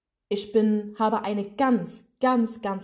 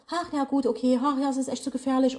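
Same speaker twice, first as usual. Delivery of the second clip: mock resignation; 4 semitones higher than usual. Mocks her hypothetical excuses to quit.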